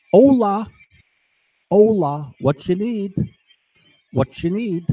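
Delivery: street dealer call. Retold or imitated. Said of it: "someone would go".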